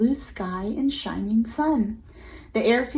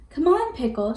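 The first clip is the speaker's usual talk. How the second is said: calling out; 4 semitones higher than usual. Acted. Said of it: "she calls to her puppy".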